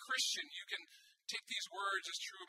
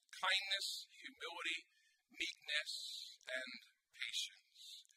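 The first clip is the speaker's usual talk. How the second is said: scripture reading; 7 semitones lower than usual. Acted. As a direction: read the verse out deliberately, phrase by phrase. Reads scripture aloud to congregation.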